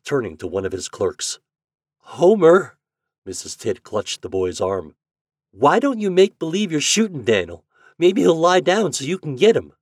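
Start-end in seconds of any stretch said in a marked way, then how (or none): 2.0-2.8 high, loud cry of his name; urgent call. A narrator's reading. Mother clutching the boy's arm, calling urgently. 5.5-9.7 urging. A narrator's reading. Mother urges boy to try trick.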